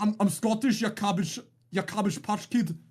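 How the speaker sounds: put-on second try at a Scottish accent, pitched a little up; Scottish trial accent. Streamer asks chat to rate his Scottish accent, playful attempt. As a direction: lean harder into the Scottish accent. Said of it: "rate my Scottish trial accent".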